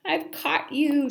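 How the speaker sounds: high, loud, gleeful; playful grandma. A narrator's reading. Grandma playing with Simon in the yard, high and gleeful. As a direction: reel him in gleefully.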